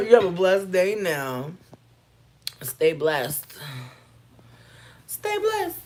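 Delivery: loud, slow blessing voice; mock church lady. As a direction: bless them sweetly but pointedly. Mock churchy farewell to troll.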